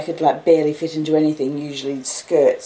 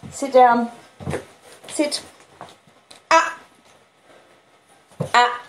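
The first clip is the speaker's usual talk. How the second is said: higher, louder sit command; firm command; 9 semitones higher, 4 dB louder, slower than usual. Real, not acted. Owner ordering the dog down, louder and higher.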